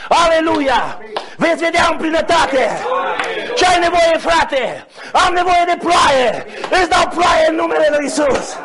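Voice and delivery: full-voiced revival preaching; fervent preaching. Real, not acted. Preacher urging the faithful not to fear, fervent preaching. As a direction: proclaim it to the whole congregation with force.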